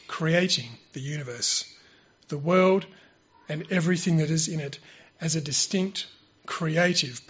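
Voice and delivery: slow, measured address with long pauses; prepared sermon delivery. Real, not acted. Speaker presents a prepared creation talk to church, measured formal delivery. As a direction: deliver it point by point, leaning on key words.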